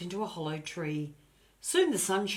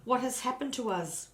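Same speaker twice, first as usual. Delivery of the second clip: higher, louder anxious cry; distressed cry; 9 semitones higher, 6 dB louder than usual. A narrator's reading. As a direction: call out in dismay to the dog. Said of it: "cried Annie".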